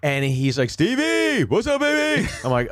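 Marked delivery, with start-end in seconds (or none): 0.7-2.3 put-on very high, whooping drunk hello; hammered friend greeting. Sherrod comes in and greets his buddy, hammered greeting. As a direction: imitate a hammered pal calling out high. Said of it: "he's hammered".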